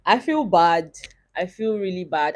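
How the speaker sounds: quiet, close to tears. Real, not acted. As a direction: voice of someone near crying. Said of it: "tell me why I'm about to cry".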